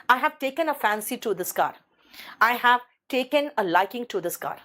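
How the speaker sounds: very slow, careful teacher reading; slow model sentences. Shown as a demonstration. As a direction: read each word slowly for the class. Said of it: "है ना?".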